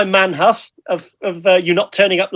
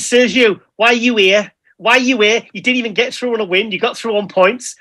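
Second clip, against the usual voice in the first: imitating Nathan in a Liverpool accent; quoting a rival with a Scouse lilt; 3 semitones higher than usual. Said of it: "That was a very good Liverpool accent".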